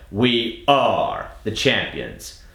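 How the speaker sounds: very slow, every R stretched out; slow drill. Shown as a demonstration. Accent coach drilling the R sound, very slow. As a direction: drill it slowly, leaning on each R. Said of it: "So again".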